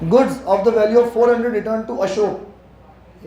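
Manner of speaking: very slow, deliberate reading aloud; slow dictation. Shown as a demonstration. Teacher reading the accounting question to the class, very slowly. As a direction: read the question out word by word.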